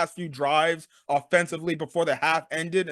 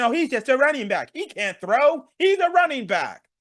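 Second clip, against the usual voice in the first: mocking critics; 5 semitones higher than usual. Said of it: "people keep making fun of him, saying".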